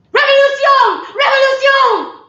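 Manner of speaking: high, loud French revolutionary shout; rally the crowd, full voice; shouted rallying cry. Acted.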